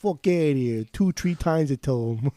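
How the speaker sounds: lightly put-on Italian wiseguy accent; mock Italian gangster accent; Italian-American mobster. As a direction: play a Gotti-style Italian mobster, lightly. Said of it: "John Gotti over here".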